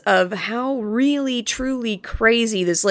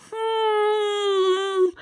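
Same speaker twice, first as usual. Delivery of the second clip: long, high, held hmm; drawn-out hmm; 10 semitones higher, 3 dB quieter than usual. Retold or imitated. Host voices his automatic reaction, drawn-out hmm. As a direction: hum one long high note of doubt.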